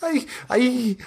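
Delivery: high, pleading and wretched; a starving vampire begs his master for release; starved pleading vampire. Acted. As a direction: beg like a starving creature locked away. Spawn speaks of castle.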